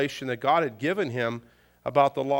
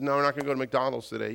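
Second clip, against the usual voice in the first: quick, offhand no from dad; fast, matter-of-fact refusal; brisk refusal; faster than usual. Retold or imitated. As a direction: brush the request off rapidly. Father's first quick refusal.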